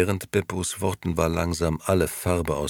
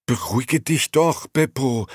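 frightened; 8 semitones higher, 4 dB louder than usual. Acted. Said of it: "stotterte Gigi erschrocken".

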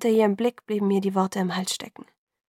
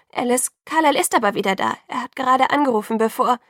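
urgent; 4 semitones higher, 6 dB louder than usual. A narrator's reading. Urgent news, cut short.

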